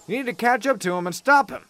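high, out-of-breath urgency; panting exclaim. A narrator's reading. Stationmaster reporting to Gordon's driver, breathless and high. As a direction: gasp the news out after running. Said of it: "he exclaimed pantingly".

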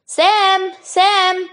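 high, drawn-out summons; calling out. Acted. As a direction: call the porter from afar. Commissionaire calls for porter.

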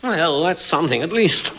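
ordinary, uninteresting speaking voice; unremarkable, conversational delivery; boring normal voice. Acted. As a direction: say it in a dull everyday voice. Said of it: "had a pretty boring, normal sort of uninteresting voice".

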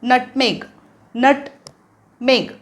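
नटमेग stretched very slowly, nut-meg; slow model. Shown as a demonstration. Teacher slowly repeating the spice name for learners. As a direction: draw out नटमेग for the class. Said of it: "सोपं आहे".

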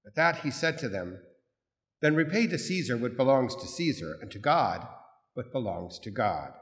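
measured, solemn scripture reading; Gospel reading. Acted. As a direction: proclaim it like the Gospel at Mass. Priest proclaims the Gospel.

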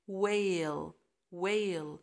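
whale said wel, H silent. Shown as a demonstration. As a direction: drop the H in whale. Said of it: "فهنقول".

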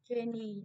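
"Trainee" stressed on NEE; stress on last syllable. Shown as a demonstration. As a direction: lean on the ending of "Trainee". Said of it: "nó rơi vào y".

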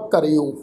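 ਕਰਿਓ with a short i on ਰ gliding into o; teacher's model reading of ਕਰਿਓ, ka-ri-o; careful pronunciation. Shown as a demonstration. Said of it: "ਇਸ ਸ਼ਬਦ ਦਾ ਪਾਠ ਉਚਾਰਨ ਕਰਾਂਗੇ".

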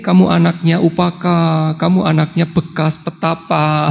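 lullaby-like mocking taunt, drawn out; mock crooning tease; slow teasing singsong. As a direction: croon the taunt slowly to the crying child. Mother teasing to hush baby.

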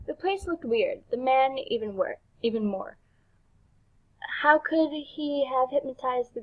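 measured rhyming storybook read; story narration. Acted. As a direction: narrate the verse line by line. Reads game's rhyming story.

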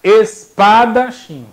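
Espadachim slowly, ES and PA punched, chim dropped; misplaced stress. Shown as a demonstration. Teacher plants doubt about tonic syllable, early syllables stressed. Misleading stress to trick class.

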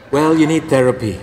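loud, laughing dry priest; laughing punchline. Acted. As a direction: land the joke with a laugh.

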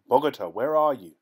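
loud searching call. Acted. Villager calls loudly, searching for Nunez. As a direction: shout the name across the field. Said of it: "called one".

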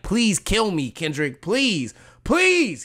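whiny mock plea, the last "please" jumping high; hammed-up pleading; mock begging. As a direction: beg like a pathetic rapper. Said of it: "he's like, begging".

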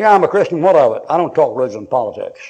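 loud, irritated comeback; defensive retort. Acted. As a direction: throw it back like a challenge. Acting a defensive, irritated Christian.

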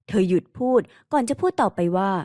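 plain reading voice

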